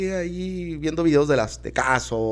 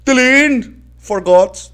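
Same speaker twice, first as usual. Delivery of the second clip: indignant protest; 12 semitones higher, 7 dB louder, much slower than usual. Acted. Aunt protests.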